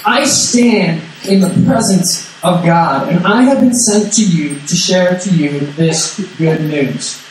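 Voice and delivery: slow, weighty angel voice; a light hint of an angel standing tall; mildly grand proclamation, slowed right down; fierce angel. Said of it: "awesome fierceness about him where he gets very big".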